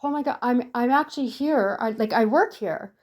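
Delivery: new hire apologizing to the greeter, flustered; flustered apology. Retold or imitated. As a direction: snap back and apologize in a fluster. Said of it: "I snapped out of it and I was like".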